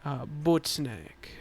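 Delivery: a light Russian accent, slow; understated Russian accent, drawn out; subtle Russian accent. Shown as a demonstration. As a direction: lean into Russian accent on butt snack, slowly. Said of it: "can you give us your best Russian accent?".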